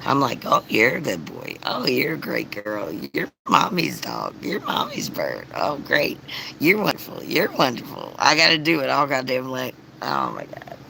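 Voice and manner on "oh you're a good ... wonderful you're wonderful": imitating baby talk to the dog and bird; reassuring pet talk. Mom reassuring her dog and bird, gentle cooing. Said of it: "reassuring everyone".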